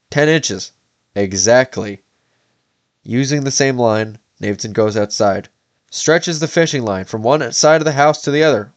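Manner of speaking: steady, measured audiobook read; story narration. A narrator's reading. Reads novel aloud to viewers.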